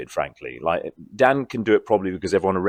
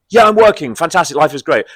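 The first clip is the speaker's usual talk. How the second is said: much higher, louder mock delight; mock elation; 7 semitones higher, 9 dB louder than usual. Advising aspiring actors, mocking a giddy employed actor. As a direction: play the giddy working actor.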